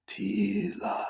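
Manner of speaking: high, hushed ghostly call; haunting voice. Retold or imitated. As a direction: call the name like a distant ghost. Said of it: "I'm gonna do these voices".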